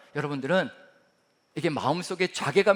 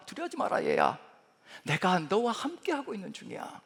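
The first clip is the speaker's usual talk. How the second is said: higher, softer "두려워하지 마라, 얘야"; softer comfort; 3 semitones higher, 3 dB quieter than usual. Shown as a demonstration. God soothing his child, higher and hushed. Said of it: "이것이 위로로 들립니다".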